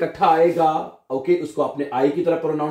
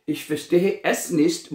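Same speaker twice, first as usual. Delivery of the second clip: slow model phrase; 2 semitones higher, much slower than usual. Shown as a demonstration. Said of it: "teacher models phrase slowly".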